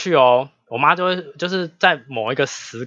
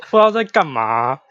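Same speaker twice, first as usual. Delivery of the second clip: talking through a giggle; laughing; 3 semitones higher, 3 dB louder than usual. Real, not acted. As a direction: giggly remark. Laughing after unvoiced laugh.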